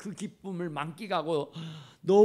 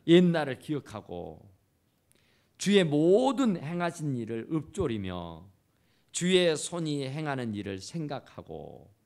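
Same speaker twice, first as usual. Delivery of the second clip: louder, ringing proclamation of 주의 손이 행하는 일을 생각하고; preacher bringing the verse home to the congregation; preached verse; 5 semitones lower, 3 dB louder than usual. Acted. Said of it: "preaching the same verse".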